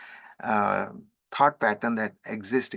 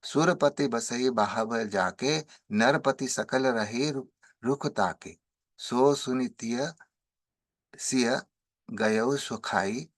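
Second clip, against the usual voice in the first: brisk sing-song chanting of the chaupai; verse recitation; much faster than usual. Acted. Chants Tulsidas verses before translating.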